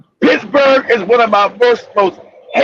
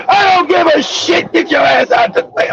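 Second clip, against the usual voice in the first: higher, mock angry yell; a touch of road rage; angry driver; 6 semitones higher than usual. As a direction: snap at him like a fed-up driver. Voicing yelling Pittsburgh drivers.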